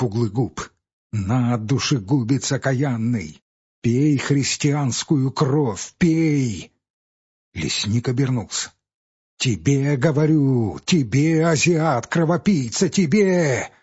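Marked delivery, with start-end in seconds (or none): 1.1-6.7 slow, heavy accusing peasant; a hint of a furious peasant's cry; bitter cursing. Peasant curses the forester. 9.4-13.7 rising fury. Acted. Peasant rails at forester.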